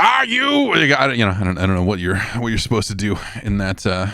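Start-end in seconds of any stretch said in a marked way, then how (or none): 0.0-0.7 high, incredulous query; a mock stunned, higher "Are you?"; incredulous question. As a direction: ask it like you can't believe your eyes. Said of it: "you can go like".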